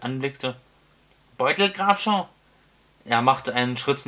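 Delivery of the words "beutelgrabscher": "Beutelgrabscher" shouted high and loud again; shouted name. Acted. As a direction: bellow it once more. Wizard repeats name shouting. (lauthals gebrüllt)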